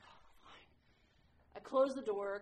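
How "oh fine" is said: barely voiced "Oh, fine", much softer; reluctantly agreeing to pray; grudging mutter. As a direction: mutter it like a sulky teen giving in. Grudging before praying.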